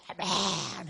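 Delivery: imitated strained amen yell, drawn out; screamed amen. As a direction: let out an involuntary amen yell. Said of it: "악을 쓰고". (악쓰며 외치는 아멘 흉내)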